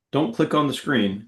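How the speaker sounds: quick instruction; said quickly, in passing; fast. Real, not acted. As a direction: rattle it off briskly. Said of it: "You said that fast".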